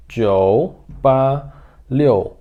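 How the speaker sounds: slow, separated digits; deliberate digit-by-digit delivery; demonstrated number reading. Shown as a demonstration. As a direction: space out each digit for a learner. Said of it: "eu falaria assim".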